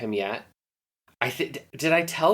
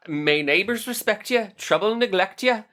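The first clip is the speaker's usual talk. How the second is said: put-on Irish accent; 6 semitones higher than usual. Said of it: "You're nailing it".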